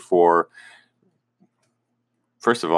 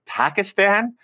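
surprised question; 10 semitones higher, slower than usual. Retold or imitated. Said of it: "He's like".

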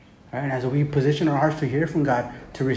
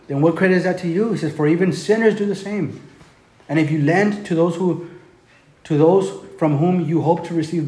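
louder, slowed, driving scripture read; impassioned reading; 3 dB louder than usual. Acted. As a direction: preach the verse at the crowd.

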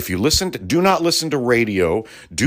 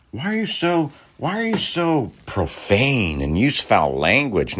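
mock scold; 3 semitones higher than usual. Mocking a scolding critic.

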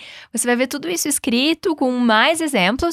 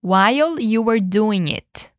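slow, careful model phrase for repeating; slower than usual. Shown as a demonstration. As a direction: say it slowly so students can copy. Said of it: "Vamos lá".

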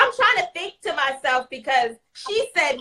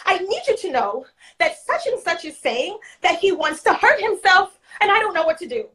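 higher, rushed worried caller; mock alarmed colleague; panicked teacher; 6 semitones higher than usual. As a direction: play the flustered teacher on the phone. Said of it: "phone call from one of my teachers".

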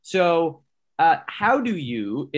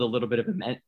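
voice crack; 4 dB quieter, much faster than usual. Real, not acted. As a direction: voice cracking on the last word. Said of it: "how about that voice crack".

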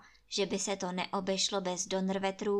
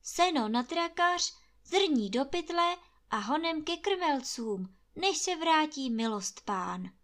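urgent retort; 6 semitones higher than usual. A narrator's reading. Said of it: "opáčí Hajný".

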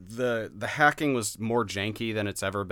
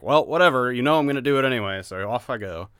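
shrugging whatever; 4 semitones higher, 7 dB louder than usual. Retold or imitated. Imitating player's indifference.

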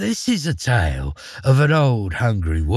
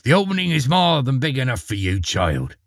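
coaxing witch; 6 semitones higher than usual. A narrator's reading. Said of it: "snapped the old witch".

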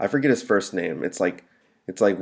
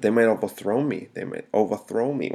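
"overthrow" in an odd lilt, pitch peaking late; "overthrow me" with a quirky rise and fall; odd emphasis. Real, not acted. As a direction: lift oddly into "overthrow", then drop on "me". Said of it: "I don't know why I said it like that".

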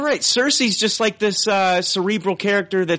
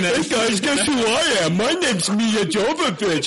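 airheaded high voice; dumb Mia Jovovich voice; 7 semitones higher, slower than usual. Retold or imitated. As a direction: play her as a ditzy star.

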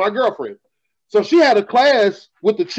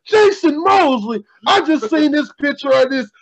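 mocking call-out; 6 semitones higher than usual. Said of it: "calls my whole goddamn government out".

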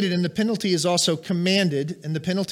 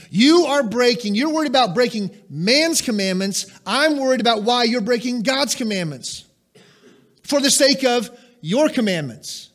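rebuke; 6 semitones higher, 6 dB louder than usual. Acted. Jesus rebuking the Pharisees.

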